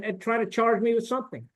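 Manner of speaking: usual speaking voice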